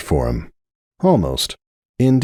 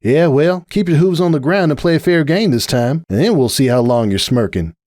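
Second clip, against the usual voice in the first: firm retort; 7 semitones higher than usual. A narrator's reading. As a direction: push back at the cocky colt. Applejack retorting to rival.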